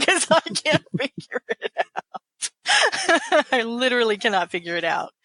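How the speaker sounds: real laughter breaking through the words; slow words pushed out through laughs; laughing at her own gibberish. Real, not acted.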